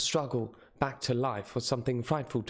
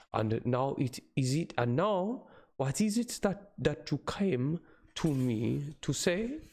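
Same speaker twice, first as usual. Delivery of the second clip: higher, slowed, theatrical professor; hammy dramatic reading; 5 semitones higher than usual. Acted. Van Helsing asks reason.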